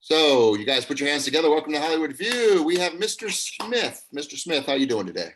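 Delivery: mock talk-show announcer; showman intro. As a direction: hype the crowd like a TV host. Host opens a mock show.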